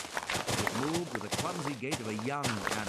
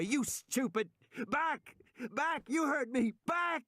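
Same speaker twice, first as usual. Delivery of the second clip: commanding high yell; lion tamer shout; 13 semitones higher, slower than usual. A narrator's reading. Man ordering a young dinosaur back, lion tamer shout. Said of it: "he shouted like a lion tamer".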